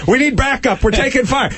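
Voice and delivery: high, urgent mock plea; officer under fire radioing for backup, hammy panic; mock panicked officer. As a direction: beg for help under fire, hammed up. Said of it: "When people called me".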